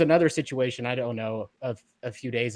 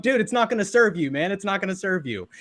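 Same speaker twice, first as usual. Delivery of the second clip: much higher, pleading with a laugh; retold friend urging restraint; 7 semitones higher, 3 dB louder than usual. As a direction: plead with your buddy to drop it. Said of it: "he was like".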